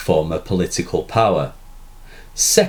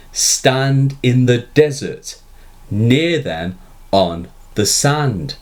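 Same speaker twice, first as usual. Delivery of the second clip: "Stand in the desert, near them on the sand" read slowly in metre, "Stand" stressed; metrical reading; 3 semitones higher than usual. Shown as a demonstration. Teacher reads the line aloud to show its metre. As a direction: scan the line beat by beat. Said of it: "the meter of the third line looks like this".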